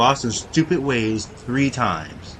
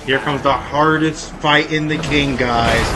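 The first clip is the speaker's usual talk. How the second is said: hammed-up dread, louder, loud "Oh no"; mock fear; 2 semitones higher, 5 dB louder, slower than usual. Gamer to viewers, pretending to dread the boss, hammed-up. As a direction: fake alarm at the boss fight. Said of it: "I was joking the whole time".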